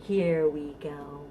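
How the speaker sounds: sing-song rhyme, rising on up and falling to a whisper on down; playful action rhyme. Shown as a demonstration. Librarian demonstrating a baby bounce rhyme, sing-song. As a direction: act out the directions for a baby. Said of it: "Okay, let's try it".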